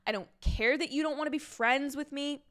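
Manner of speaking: mock-pissed declaration; acted indignation. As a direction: play a miffed young woman declaring independence. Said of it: "She's pissed".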